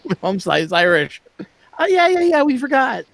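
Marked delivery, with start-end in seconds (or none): 1.8-3.0 high-pitched mock concession; mimicked friends. Irish friends conceding the family link, high-pitched imitation.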